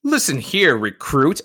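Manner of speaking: stern officer starting to lose patience; firm, rising irritation at a recruit; getting upset. Acted. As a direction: put them in their place. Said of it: "starting to get a little upset".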